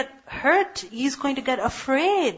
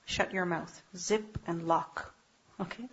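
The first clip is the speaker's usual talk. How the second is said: hushed demonstration; 4 semitones lower, 9 dB quieter than usual. Shown as a demonstration. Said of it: "It's like you want to say something".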